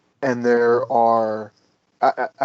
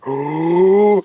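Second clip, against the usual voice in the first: gasped oh; 6 semitones higher, 6 dB louder than usual. Retold or imitated. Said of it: "And I'm like, gasps".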